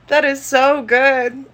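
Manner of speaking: slow, drawn-out mock praise; mocking imitation. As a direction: drag it out like forced praise. Mimicking the taster's line.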